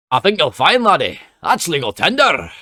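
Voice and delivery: loud, high, hammed-up Scottish accent. Shown as a demonstration. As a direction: have a big, loud go at sounding Scottish. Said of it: "in a Scottish accent as well, which I will give a whirl".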